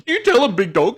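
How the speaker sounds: high, loud, laughing cheer; cheering big dog. Pretend. A mate in the crowd urging the big dad on, high and laughing. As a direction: egg him on from the back, grinning. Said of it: "in the back and go".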